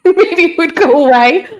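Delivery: high, loud giggle through the words; laughing. Real, not acted. Joking to viewers about putting Jeff in the corner, laughing. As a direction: burst out laughing mid-joke.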